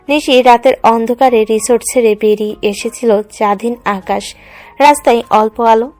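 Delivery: ordinary delivery, nothing marked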